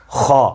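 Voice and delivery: heavy, raspy خا; letter demo. Shown as a demonstration. Teacher models a heavy خا. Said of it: "خا کا حرف آپ کے منہ کے اندرونی حصہ کے اوپر".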